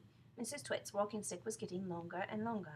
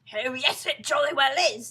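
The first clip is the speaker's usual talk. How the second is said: loud, raised contradiction; emphatic husband; 5 semitones higher, 15 dB louder than usual. Acted. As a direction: overrule her with gusto. Husband insists in story.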